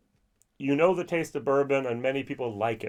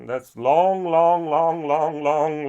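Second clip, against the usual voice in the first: louder, each long stretched and stressed; milk the word long, louder each time; drawn-out emphasis; 3 semitones higher, 7 dB louder, much slower than usual. Real, not acted. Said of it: "long introduction".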